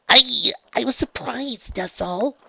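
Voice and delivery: high, slow halting admission; faltering explanation. A narrator's reading. Trixie explains herself to Raindrops, faltering. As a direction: falter on the start, then ease off.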